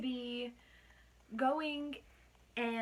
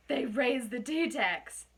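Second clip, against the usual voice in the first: slow, hammed-up bad British accent; a schoolkid's over-the-top British accent; terrible British accent; 4 dB louder, slower than usual. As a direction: slowly announce the news in a bad British accent. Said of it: "with my terrible British accent".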